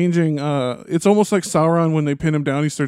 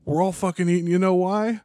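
hyped Theoden; 5 semitones higher than usual. Retold or imitated. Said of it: "He goes".

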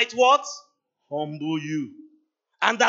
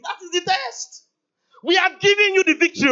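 much higher and louder proclamation; booming declaration; 12 semitones higher, 8 dB louder than usual. Acted. God tells his people the victory is theirs, booming. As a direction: proclaim it like a divine decree.

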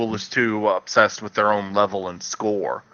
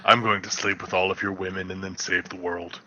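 low gravel vigilante growl; 2 semitones lower than usual. Retold or imitated. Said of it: "I am doing a gruff delivery".

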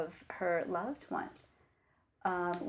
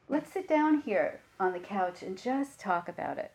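easy, gentle voice of a calm colleague; calm reassurance. Retold or imitated. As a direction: settle the agitated kid with calm, light laughter. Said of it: "very calmly and said".

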